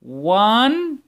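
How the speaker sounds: teacher leading a loud class count. Shown as a demonstration. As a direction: call out the number loud and high for the class. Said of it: "سمعوني بصوت عالي".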